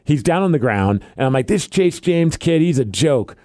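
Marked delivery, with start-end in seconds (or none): 1.5-3.4 mock arrogant wrestling heel talking down to the crowd; cocky heel promo. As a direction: cut a smug wrestling promo. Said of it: "that's my character".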